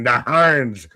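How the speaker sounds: put-on gruff old salt growl; sea captain voice. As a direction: bark it like a grizzled sea captain. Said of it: "say that like a fucking sea captain".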